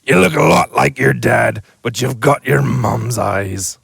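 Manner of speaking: booming, then gentle; fond giant. Acted. The giant telling Harry he has his parents' looks, booming then gentle.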